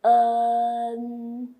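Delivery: clear, careful en; Mandarin final en. Shown as a demonstration.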